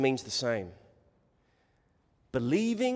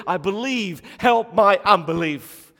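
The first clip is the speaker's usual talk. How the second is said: preacher's acted cry, building louder; 4 semitones higher, 8 dB louder than usual. Father of the child pleading with Jesus, crying out. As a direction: cry it out, swelling on the plea. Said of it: "he screams out, he shouts out".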